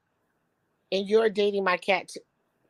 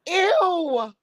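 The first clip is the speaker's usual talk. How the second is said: disgusted ew; 10 semitones higher than usual. Real, not acted. Disgust at cat in bed.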